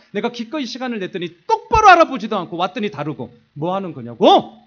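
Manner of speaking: scolding his wife, voice climbing; angry rant. Retold or imitated. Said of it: "제가 엄청나게 화를 냈어요". (아내에게 쏟아내는 크고 높은 화풀이)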